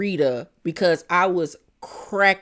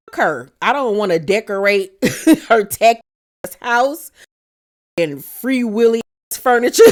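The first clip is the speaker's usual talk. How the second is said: laughing insult; 2 semitones higher, 4 dB louder than usual. Retold or imitated. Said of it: "she was like".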